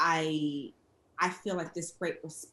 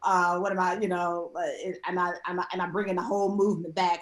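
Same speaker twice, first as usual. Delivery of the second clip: louder, worried inner panic; anxious self-doubt; 6 dB louder, faster than usual. Retold or imitated. Creator doubting her own work, anxious louder inner voice. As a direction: voice the rising worry, pushing. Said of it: "you're like".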